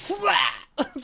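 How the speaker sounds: squealing burst of laughter; high laugh. Real, not acted. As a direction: giggle high and delighted.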